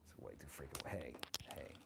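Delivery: lightly voiced doting old grandma; sassy old granny, chatty and fond; grandma character. Streamer playing grandma, chatting with her viewers.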